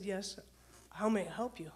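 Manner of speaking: steady yourself and take control; in charge. Retold or imitated. Dispatcher answering a stuttering caller, in charge. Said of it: "I've gotta be the one in charge".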